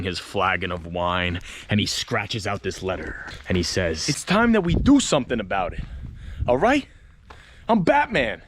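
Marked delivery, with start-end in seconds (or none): 4.1-8.4 Bethlen's voice. Retold or imitated. Letter voiced as Bethlen in story.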